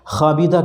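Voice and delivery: خابیدہ said with a rasping kh; throaty kh. Shown as a demonstration. Teacher showing students the Urdu خ. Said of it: "خا اور کھا میں فرق ہونا چاہیے".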